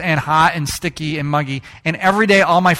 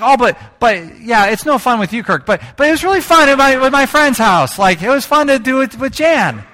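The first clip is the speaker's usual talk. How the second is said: put-on high, louder pleading kid sister; a little girl defending herself, pitched up; 6 semitones higher, 5 dB louder than usual. Sister explaining to Kirk it was fun with Jan, high and pleading. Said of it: "And she's like".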